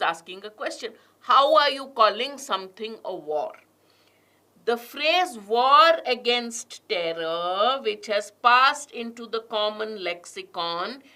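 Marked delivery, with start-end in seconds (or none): 4.6-7.8 "war" slowed and lifted with a rise; stress on war. Shown as a demonstration. Teacher reading the passage, stressing "war". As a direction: hold and lift "war". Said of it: "I'm also going to stress on certain words".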